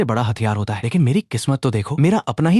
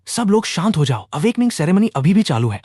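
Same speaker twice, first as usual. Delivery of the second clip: high, announcing call, no real shout; calling out on mic; 6 semitones higher than usual. A narrator's reading. Principal calming the crowd over the mic, calling out high. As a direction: call for order, pitched up. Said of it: "mic पर चिल्लाकर".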